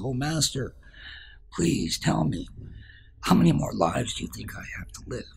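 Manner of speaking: put-on pleading old man. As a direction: beg the master for an answer. Ant-bitten old man pleading.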